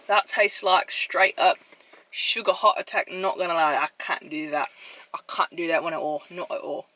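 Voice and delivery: rough mock British accent; attempted British accent. Vlogger reacting to too much sugar, attempted British accent. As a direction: put on a wobbly British accent. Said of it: "trying to do a British accent".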